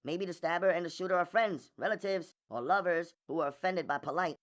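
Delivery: serious woman lawyer, high and quick; high, brisk, considered female character voice; thoughtful and serious. A narrator's reading. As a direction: theorise earnestly in a high, soft voice. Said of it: "seemingly with great thought and seriousness".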